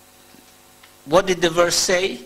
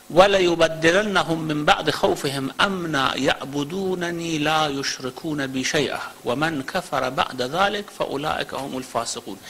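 rapid Quran recitation; much faster than usual. Acted. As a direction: recite it swiftly from memory, letting the last words drop. Recites Surah An-Nur verse.

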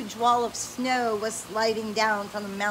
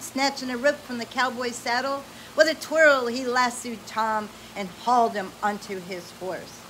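bright, animated read-aloud voice; lively storybook reading; 3 dB louder than usual. Acted. Parent reading an adventure story to a child, animated.

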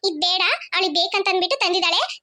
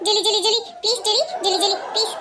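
pleading. Acted. Begging friend for fish.

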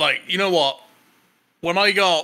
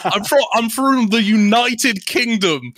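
laughing; 5 semitones higher, 4 dB louder, slower than usual. Real, not acted. Laughing retelling the arrest.

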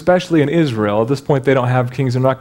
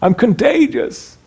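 leper calling out; 5 semitones lower than usual. Retold or imitated. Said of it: "I used to have to say".

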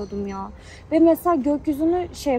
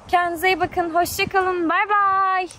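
higher, bright farewell; cheerful goodbye; 6 semitones higher, slower than usual. Real, not acted. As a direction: wave them off cheerily. Sing-song goodbye.

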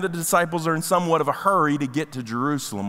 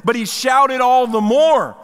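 slow, loud and weighty; emphatic reading; 5 semitones higher, 6 dB louder, slower than usual. Shown as a demonstration. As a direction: lean hard on every word of the quote. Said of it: "it says this".

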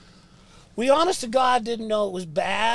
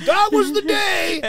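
high, loud, very slow laughing words; laughing at himself; 10 semitones higher, 8 dB louder than usual. Real, not acted. Catching his own wrong story, laughing loudly. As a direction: laugh through it at your own mistake. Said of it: "what I just said is bullshit".

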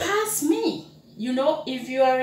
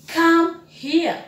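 calling someone; 7 semitones higher, 6 dB louder than usual. Shown as a demonstration. Teacher demonstrating a call.

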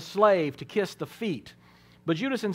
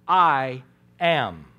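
lower, louder, weighty pronouncement; solemn divine declaration; 4 semitones lower, 5 dB louder than usual. Acted. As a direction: let the words land like thunder. Dramatic re-enactment of Jesus' answer.

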